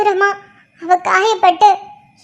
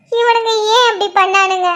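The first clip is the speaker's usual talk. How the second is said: crying. Acted. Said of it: "அழாத".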